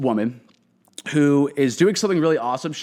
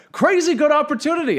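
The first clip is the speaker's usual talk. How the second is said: much higher and louder, mock-excited; sarcastic enthusiasm; 13 semitones higher, 4 dB louder than usual. Real, not acted. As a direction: oversell it with heavy irony. Sarcastic comment on job offer.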